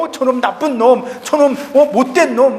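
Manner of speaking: mildly heated imitation of name-calling; mock cursing. Preacher shows someone cursing a bad fellow, mock scolding. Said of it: "누군가를 막 욕하고".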